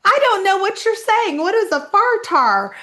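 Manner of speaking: retold bafflement. Newcomer to locals about a strange phrase, exaggerated bafflement. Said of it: "And I was like".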